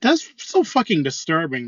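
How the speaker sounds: ordinary talk, nothing marked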